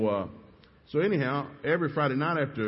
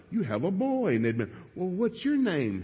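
mock grown-up voice; 9 semitones higher than usual. Voicing adults greeting a boy.

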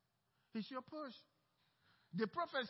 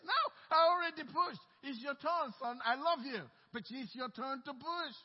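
God's loving insistence; 3 semitones higher, 6 dB louder than usual. Acted. God telling son to push.

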